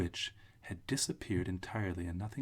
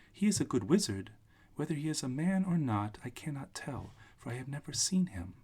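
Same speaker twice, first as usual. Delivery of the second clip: put-on little old witch; 6 semitones higher, 3 dB louder than usual. Witch figure, high voice.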